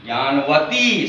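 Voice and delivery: ज्ञानवती slowly, ending on a long "ee"; long final vowel. Shown as a demonstration. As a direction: stretch the closing "tee" of ज्ञानवती. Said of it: "बड़ी की मात्रा जोड़ेंगे".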